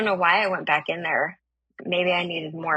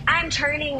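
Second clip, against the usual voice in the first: higher voice pitched to carry; calling back; 8 semitones higher than usual. Retold or imitated. Driver breaking away from stranger, calling back. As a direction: imitate calling out from a moving car.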